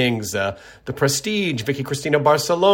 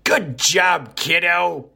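"Good job, kiddo" said higher with a falling end, a lightly voiced old-timer; older folks praise; 5 semitones higher, much slower than usual. Host praising a listener like an older relative, lightly voiced. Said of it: "as us older folks say".

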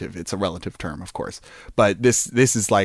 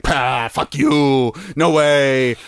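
gruff cop bluster; 3 semitones higher than usual. Retold or imitated. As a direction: sneer it like a cocky cop. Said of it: "And he's like".

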